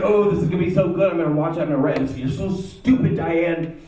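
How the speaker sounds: rubbing his hands at proving her wrong; gleefully delighted. Retold or imitated. Gloating over the video he will use to mock Diane. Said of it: "I got really gleefully delighted".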